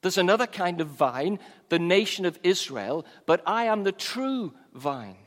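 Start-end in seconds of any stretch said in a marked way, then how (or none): 3.2-5.2 "true" lifted and drawn out; stress on true. Shown as a demonstration. Jesus contrasts himself with Israel the vine, stress on "true". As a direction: set "true" apart with firm weight. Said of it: "emphasis on the word true".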